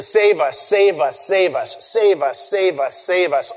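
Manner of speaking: mild mock chant, each plea falling; mocking crowd. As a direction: lightly imitate a taunting crowd. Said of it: "All this mocking".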